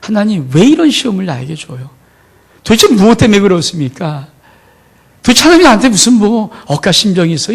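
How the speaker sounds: mildly heated mock protest to God; exasperated complaint, building a little toward the end; acted anger at God. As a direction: play someone indignantly demanding answers from God. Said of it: "화가 나죠".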